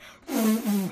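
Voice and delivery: failed whistle attempt, just blowing; loud puff of a bungled whistle; botched whistle. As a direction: imitate a whistle going wrong. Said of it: "And I fuck it up".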